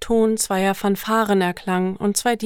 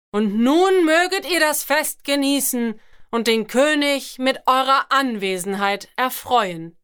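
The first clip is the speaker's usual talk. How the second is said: booming thunder voice; 4 semitones higher than usual. Acted. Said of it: "rief der Herold".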